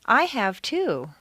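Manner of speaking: slow, I stressed and falling. Shown as a demonstration. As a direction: lean on I to say me too. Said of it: "I've been to Europe".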